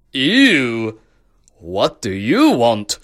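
slow, drawn-out distaste; mild disgust. Acted. Emperor answers the dirty beggar, mildly disgusted. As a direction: lightly recoil as a snooty emperor.

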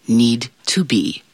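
a sly whisper on the last word; whispered punchline. Acted. Fairy godmother ending her tale to listeners in a whisper. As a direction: drop to a secret whisper to land the joke.

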